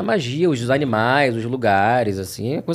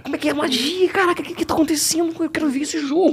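much higher, gushing, laughing at the end; eager excitement; 11 semitones higher than usual. Retold or imitated. Voice actor who had no images, high giddy longing. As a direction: burst with longing to see it. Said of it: "E a gente não tinha imagem".

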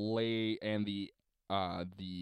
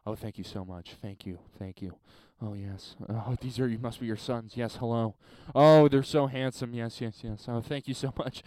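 a hint of a polite widow; 2 semitones lower than usual. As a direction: lightly play the grieving widow. Mom plays along as widow.

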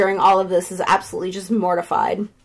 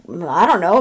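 low, unsure reply; mildly acted uncertainty; retold hesitant shrug; 6 semitones lower than usual. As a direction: answer reluctantly, pitched down. Johnny's first, unsure answer.

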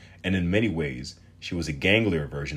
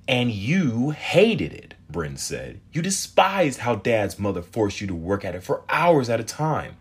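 put-on teasing teen girl; 7 semitones higher, 6 dB louder than usual. Teen girl voiced in story.

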